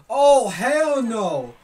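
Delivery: loud slow disbelief. Real, not acted. Sees tough opponent.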